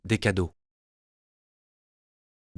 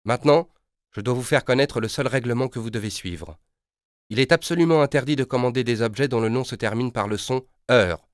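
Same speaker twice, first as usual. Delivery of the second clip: higher, louder stating the rule; company voice; 4 semitones higher, 4 dB louder than usual. Acted. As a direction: official rulebook voice. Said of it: "répond la voix".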